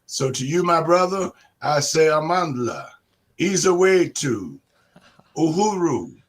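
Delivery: rising rally chant, call and response; ranting dictator speech. Real, not acted. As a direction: whip up the crowd.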